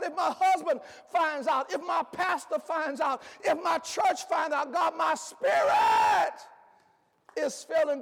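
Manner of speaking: a preacher praying as a weary, broken believer; pleading prayer. Acted. A preacher voicing a weary believer's prayer, pleading. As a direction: pour out the confession to God, half sung.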